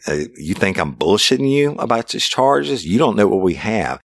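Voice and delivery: mock his disbelief hard; angry taunt. Detective taunting a suspect about the evidence, angry. Cop berating suspect in interrogation.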